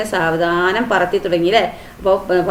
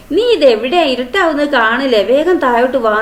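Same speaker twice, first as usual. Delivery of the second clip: worried call; 4 semitones higher than usual. Acted. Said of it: "അവളുടെ ശബ്ദം ഇടറിയുണ്ട്".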